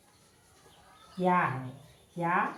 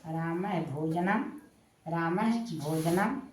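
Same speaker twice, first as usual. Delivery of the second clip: slow dictation; slower than usual. Shown as a demonstration. Dictating the sentence while writing it.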